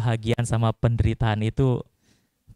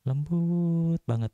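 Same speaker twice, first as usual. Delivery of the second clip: gentle Solo lady's speech; slower than usual. Shown as a demonstration. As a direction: ease it out slowly and tenderly. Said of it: "putri-putri Solo ngomong lembut".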